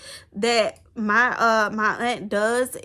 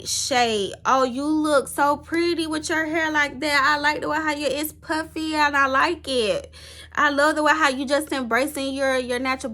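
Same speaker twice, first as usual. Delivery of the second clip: higher, gentle and admiring; sweet praising aunt; 3 semitones higher than usual. Retold or imitated. Showing how her aunt should praise her hair, sweetly and higher. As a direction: coo it like a loving aunt. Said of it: "it's supposed to be like".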